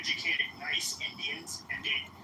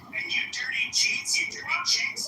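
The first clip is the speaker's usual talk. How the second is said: mock Indian accent, higher than his own voice, taunting; hammed-up Indian English caricature, needling the other guy; put-on Indian accent; 8 semitones higher, 4 dB louder than usual. Trolling a stranger online in a put-on Indian accent.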